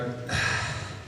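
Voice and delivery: soft acted sigh; soft, breath-only mock sigh. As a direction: let out a quiet put-on sigh. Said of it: "I reach over and I go".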